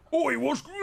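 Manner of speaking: high yelp breaking into laughter; laughing orc yell. Acted. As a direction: cry out and crack up mid-word. GM replays orc cry, laughing.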